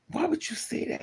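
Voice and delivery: put-on high, small hurt voice of a child; hurt child's question. Child asking father why he said that, high and hurt. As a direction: ask it up high like a wounded kid. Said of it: "So I was like".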